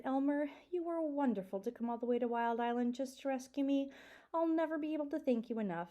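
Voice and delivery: a hint of a thankful young dragon; grateful baby dragon. Dragon voiced in read-aloud.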